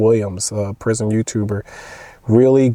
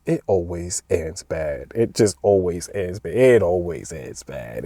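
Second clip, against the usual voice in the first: quoting Jay; 5 semitones lower, 4 dB quieter, slower than usual. Retold or imitated. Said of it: "he always says".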